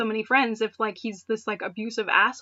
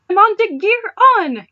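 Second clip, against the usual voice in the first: excited shout; 11 semitones higher, 12 dB louder than usual. Acted. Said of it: "Clement continued".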